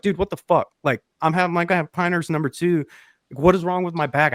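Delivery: indignant, a touch heated; mild retold anger. Friend griping to caddy about his bag, a bit heated. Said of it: "And he was like".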